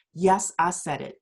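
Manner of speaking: a hint of a deep host impression; Michael Baisden voice. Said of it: "in my Michael Baisden voice".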